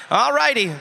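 high, upbeat promo call; infomercial. Acted. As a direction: pitch the date like an ad. Promo announcement to audience.

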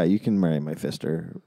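mock lisp from a fat tongue; swollen tongue. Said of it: "my tongue is so big".

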